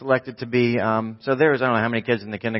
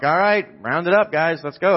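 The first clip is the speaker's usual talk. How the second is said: mildly raised calling-out voice; rounding up kids; 4 semitones higher than usual. Retold or imitated. Chaperone calling kids out of the cornfield, mildly raised voice. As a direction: round up the group, higher pitched.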